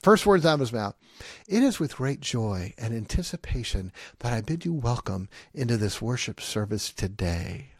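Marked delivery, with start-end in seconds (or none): 1.5-7.7 pompous pulpit greeting, lightly done; a hint of a formal pastor voice; mocking pastor's stock welcome. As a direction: recite it like a stiff preacher's formula. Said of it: "And he would always say, here's the speech".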